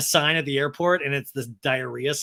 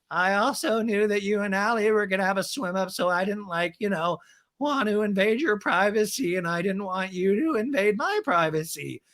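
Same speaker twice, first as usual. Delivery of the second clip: Raquel impression; 4 semitones higher than usual. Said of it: "Raquel's like".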